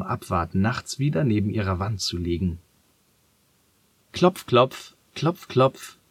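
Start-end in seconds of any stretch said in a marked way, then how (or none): 4.1-6.0 Klopfen gesprochen. Acted. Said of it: "fragt Martha an".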